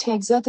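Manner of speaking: "Hegseth" said HEG-zuth, stress on the first syllable; careful demo pronunciation. Shown as a demonstration. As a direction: spell out "Hegseth" as egg plus Seth with an H. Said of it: "is pronounced".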